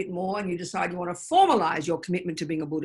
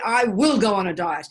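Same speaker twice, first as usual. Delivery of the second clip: louder, set and decided; firm resolve; 6 dB louder than usual. Retold or imitated. To the student, voicing a firm vow with resolve. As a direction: say it like you finally mean it. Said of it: "And then one day you say".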